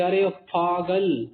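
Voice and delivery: a scolding ارے پاگل, drawn out; mock insult. Shown as a demonstration. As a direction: call someone a fool in jest. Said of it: "جب آپ کسی کو بولیں گے".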